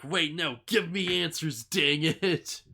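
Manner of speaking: playfully acted indignant plea; exasperated demand. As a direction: demand it like a frustrated character. Ken demands answers as she leaves.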